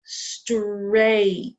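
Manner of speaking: straight drawn out slowly; teacher modelling straight slowly for students; slow model word. Shown as a demonstration. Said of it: "What about straight".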